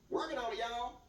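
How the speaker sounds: lightly put-on Southern accent. Shown as a demonstration. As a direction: slip into a folksy Southern accent. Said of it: "Southern accent".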